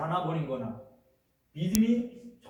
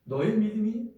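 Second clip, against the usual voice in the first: Jesus chiding the disciples, raised voice; rebuking; 5 semitones higher than usual. Retold or imitated. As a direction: press them on their faith. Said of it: "이렇게 책망하셨어요".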